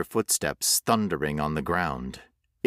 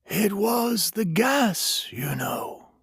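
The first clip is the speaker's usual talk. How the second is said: eerie stranger; 13 semitones higher, slower than usual. A narrator's reading. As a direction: confide it gently. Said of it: "the stranger said".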